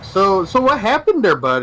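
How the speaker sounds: Canadian cop asking about a domestic call; mock Canadian cop. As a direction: ask it like a mild-mannered Mountie. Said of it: "Canadians' version of Cops".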